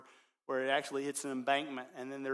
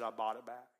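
soft, low closing words; overheard murmur; 4 semitones lower, 5 dB quieter than usual. Retold or imitated. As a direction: say it quietly, as if to the boat. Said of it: "this is what the owner heard".

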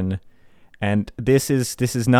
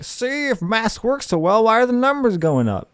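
higher-pitched mocking imitation; put-on higher voice, mock gotcha; mock smug skeptic; 9 semitones higher than usual. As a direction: mimic someone who thinks they've won. Mimics gloating mask skeptic.

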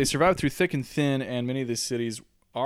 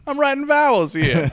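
much higher, louder put-on voice; mock indignant; 14 semitones higher, 6 dB louder than usual. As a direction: squeal it in a cartoon huff. Continues the joke in put-on voice.

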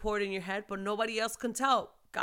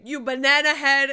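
dad's mild insult; 5 semitones higher, 12 dB louder than usual. Retold or imitated. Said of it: "he would say".

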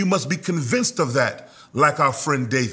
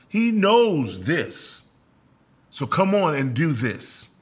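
sly serpent; slower than usual. Acted. Serpent's whispered lie voiced.

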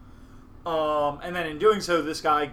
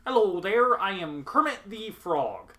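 light Kermit voice, higher opening; a hint of a cheerful Muppet frog; 4 semitones higher than usual. Shown as a demonstration. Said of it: "I literally have to do that, like, five times to get the voice going".

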